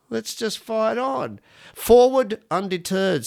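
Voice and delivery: rally the listeners like a mock general; hammed-up rousing slogan; rallying cry. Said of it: "rallying cry to listeners".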